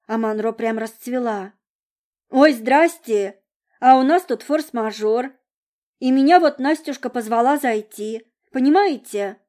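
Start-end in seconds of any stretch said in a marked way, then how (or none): 2.3-9.4 high, loud sing-song sweetness; sweetest voice in the world. Acted. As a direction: sing it sugary to the mother. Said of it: "запела она самым милым голоском в мире".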